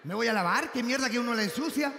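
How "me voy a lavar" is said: laughing disbelief at her words; incredulous echo. Real, not acted. Comedian repeats the girlfriend's words to the crowd, laughing incredulously. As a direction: throw her line back, amazed.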